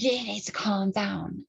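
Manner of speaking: slow whispered imitation of the woman; whispered mock. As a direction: hiss it slowly under your breath. Quoting the woman again.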